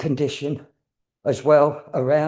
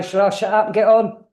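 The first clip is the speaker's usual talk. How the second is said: raised, higher call to the crowd; loud call out; 7 semitones higher, 7 dB louder than usual. Real, not acted. Medium asking the audience loudly whether to start. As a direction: lift the voice to rouse the room.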